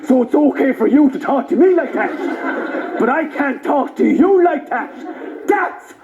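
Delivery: mock-aggrieved comeback; retold retort. Comedian retorts to the Travellers, mock aggrieved. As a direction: turn their complaint back on them.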